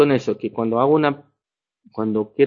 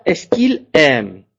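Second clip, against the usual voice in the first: slow, careful "est-ce que tu cherches?"; slow teaching demo; much slower than usual. Shown as a demonstration. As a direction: spell out the French question slowly for beginners. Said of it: "Y la tercera". (pregunta francesa dicha muy despacio)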